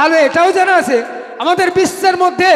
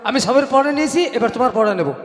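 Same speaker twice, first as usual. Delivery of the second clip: lightly played village schoolteacher; teacher voice; 3 semitones lower, 4 dB quieter, faster than usual. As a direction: play the teacher testing a pupil. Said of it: "মাস্টারমশাই হয়ে গেছে".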